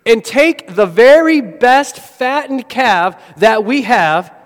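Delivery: father calls the servants to fetch the robe, a lightly voiced shout; mock yelling father. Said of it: "the father is yelling out to his servants".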